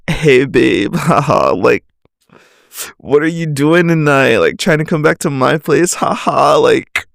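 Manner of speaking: lightly imitated flirty player; mock a smooth-talking hookup guy, tossing in hollow hahas; mild send-up of a fuckboy's come-on; stereotypical fuckboy. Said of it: "this is literally how they talk".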